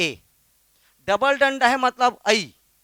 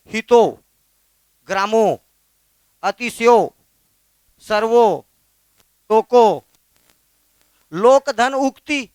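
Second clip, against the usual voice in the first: loud drill; 6 dB louder than usual. Shown as a demonstration. Teacher drilling sandhi examples.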